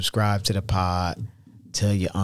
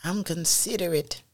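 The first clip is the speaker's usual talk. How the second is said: mock protest; 8 semitones higher, 6 dB quieter than usual. Husband mock voice.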